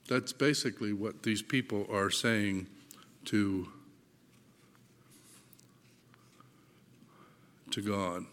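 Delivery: faint and drained, trailing off; words fading as dizziness hits; lightheaded. Real, not acted. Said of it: "Sorry, I'm a little lightheaded".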